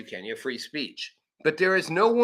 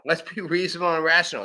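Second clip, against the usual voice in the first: fast laughing mock; 3 semitones higher, much faster than usual. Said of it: "That's me right now".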